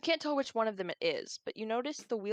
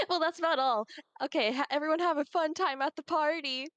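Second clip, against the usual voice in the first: disguised deep voice; 7 semitones higher, 4 dB louder than usual. Acted. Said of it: "obviously using a very deep voice changer".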